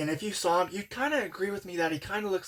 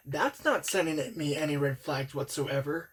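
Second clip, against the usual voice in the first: dry sarcasm, opening with a pitch jump; sarcastic. Acted. Worker reacting to a creepy coworker's confession, sarcastic. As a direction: feign being totally unbothered, sarcastically. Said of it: "sarcastic voice".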